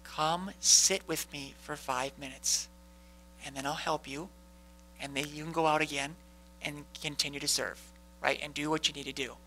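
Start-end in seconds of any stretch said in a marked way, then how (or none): 0.0-7.8 gentle invitation. Retold or imitated. Preacher voicing the Lord inviting a weary heart: gentle, soft. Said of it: "the Lord just says".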